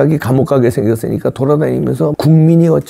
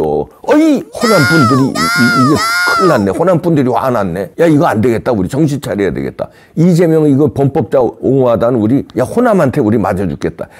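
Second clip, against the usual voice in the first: mock panic. Democrats panicking, voiced.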